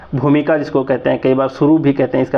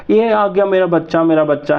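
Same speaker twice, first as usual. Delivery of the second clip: put-on higher, light baby talk to a dog; doting pet talk; 4 semitones higher than usual. Owner greeting their dog, a touch of doting. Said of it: "जो कहते हो आप प्यार से".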